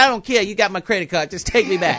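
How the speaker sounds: loud, impatient order; excited, emphatic insistence; insistent demand. Retold or imitated. Brushing off cost, insisting to captain.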